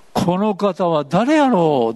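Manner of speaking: 「この方は誰やろう」 drawn out very slowly, falling in wonder; wondering aloud. Retold or imitated. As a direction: marvel at who he is, slowly. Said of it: "って言ったんですよ". (「この方は誰やろう」をゆっくり驚嘆して)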